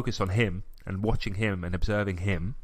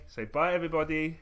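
higher, sing-song prompt to a little one; 8 semitones higher than usual. Real, not acted. Father getting his child to farewell listeners, coaxing.

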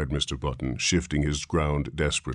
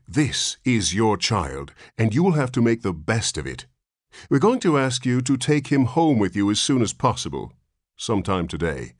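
stern nurse; 6 semitones higher, 4 dB louder than usual. A narrator's reading. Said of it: "said the nurse severely".

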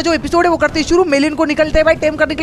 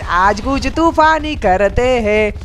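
hyped-up shout; 2 semitones lower, slower than usual. Real, not acted. Gamer rallying his viewers, drawn-out hype into a shout. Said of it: "ज़्यादा चिल्लाना नहीं चाहिए".

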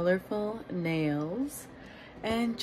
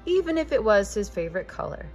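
bright, gently animated storybook reading; reading to children. A narrator's reading. Host reading a picture book aloud to young listeners, lively storytelling. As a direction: read it like a bedtime picture book for kids.

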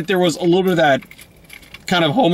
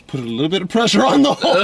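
quoted through laughter; 2 semitones higher, faster than usual. Retold or imitated. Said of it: "is like".

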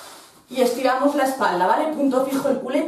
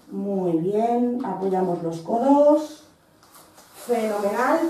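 calm praise; 4 semitones lower, 3 dB quieter than usual. Real, not acted. Relief after the hard hold.

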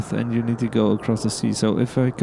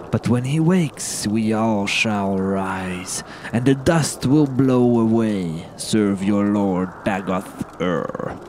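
ominous cultist voice; slower than usual. Acted. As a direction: intone it like a sinister sleeper. Repeats the sleeper's message.

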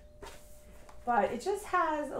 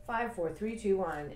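calm countdown. Shown as a demonstration. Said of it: "that's the point of all this".

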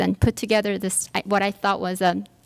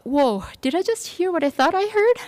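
stunned disbelief; 9 semitones higher than usual. Retold or imitated. Inner thought after insult.

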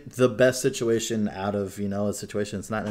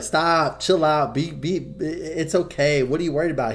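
higher, louder calming wife; the wife, calming him in a higher voice; soothing wife voice; 7 semitones higher, 5 dB louder than usual. Retold or imitated. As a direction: talk him down, mock-soothing. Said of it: "She's like".

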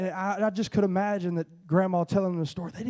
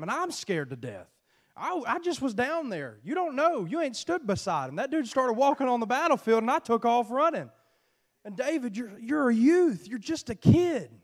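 put-on scolding older brother; 5 semitones higher than usual. Brother scolding David, voiced.

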